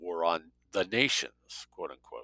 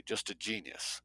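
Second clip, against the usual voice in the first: much softer, gentle aside; 12 dB quieter than usual. A narrator's reading. Dale softly correcting Jake, gently. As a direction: let it drop to a tender, quiet close. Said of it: "Dale said gently".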